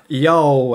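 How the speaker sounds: "Yo" as a drawn-out Southern y'all; drawled y'all. Retold or imitated. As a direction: imitate a perfectly said y'all on "Yo". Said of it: "She says it so perfectly".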